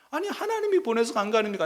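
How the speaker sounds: 하나님이 pushed up high and hard; arguing with God. Acted. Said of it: "막 따지듯이 지금 기도하는 거죠".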